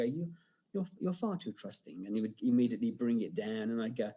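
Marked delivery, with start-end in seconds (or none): 0.0-2.0 Peter Cushing. Retold or imitated. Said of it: "And I would just go to, to Paul, if he's getting a bit big".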